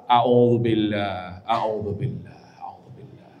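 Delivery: slow a'udzubillah fading to a whisper; fading repetition. Shown as a demonstration. Preacher demonstrating calming prayer, fading to whisper. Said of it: "berulang-ulang".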